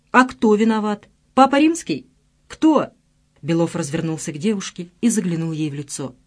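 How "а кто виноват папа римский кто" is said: higher, louder sarcastic demand; angry retort. A narrator's reading. Sasha demanding Lena tell him who is to blame, loud and angry. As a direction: throw the blame back at her, loud.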